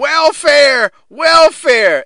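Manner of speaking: loud, high-pitched mock shout; imitated yell. Host re-enacting Cornette yelling at a woman in the front row, yelling. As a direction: yell it out, aping an irate heckle. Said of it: "Cornette is yelling at some".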